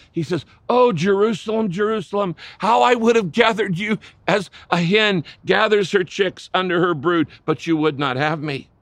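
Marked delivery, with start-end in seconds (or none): 0.7-2.3 higher, louder anguished call of a name; passionate cry. Retold or imitated. Jesus cries over Jerusalem from the hill, passionate and anguished. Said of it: "in passionate cry". 2.6-8.7 passionate cry. Retold or imitated. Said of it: "in passionate cry".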